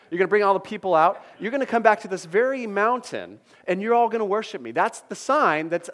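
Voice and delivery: preacher voicing God with energy; emphatic reassurance. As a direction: proclaim it like a confident promise. Preacher voices God's reassurance.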